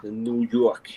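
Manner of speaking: lightly put-on New York accent. Shown as a demonstration. Showing friends the one accent they can do, New York accent. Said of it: "There's only one accent I'm good at".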